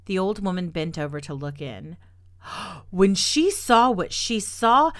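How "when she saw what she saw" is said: gasp, then slow and hushed; breathless with shock. A narrator's reading. Gasp at the skunk.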